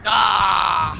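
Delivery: sudden startled shout; surprised shout. Real, not acted. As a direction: yelp as you get hit. Surprise en jeu, cri. (cri de surprise)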